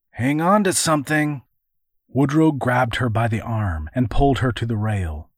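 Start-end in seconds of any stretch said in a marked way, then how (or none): 0.1-1.4 urgent. Acted. Urgent warning during attack.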